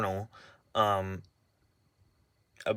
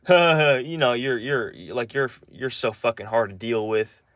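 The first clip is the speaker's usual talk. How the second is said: mocking laugh. Grandparents laughing at the grandchild, mock laughing retold. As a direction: scoff through a laugh. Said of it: "both of them burst out laughing".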